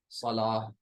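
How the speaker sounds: सलाह slow, ending in h; pausal ha. Shown as a demonstration. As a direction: draw out सलाह and finish on h, no t. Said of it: "सलात नहीं कहेंगे". (सलाह, आख़िर में हा की आवाज़)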